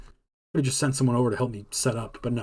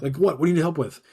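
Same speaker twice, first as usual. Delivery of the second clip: impatient retold question, pitched up; imitating frustrated boss; 4 semitones higher, 3 dB louder than usual. Head chef repeating himself to the cook, mock frustration. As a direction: press for an answer like a fed-up chef. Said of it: "he's getting more and more frustrated".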